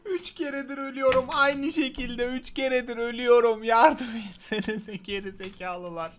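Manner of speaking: fed-up gamer rant; exasperated complaint. Real, not acted. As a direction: vent about dying again. Complaining about dying repeatedly.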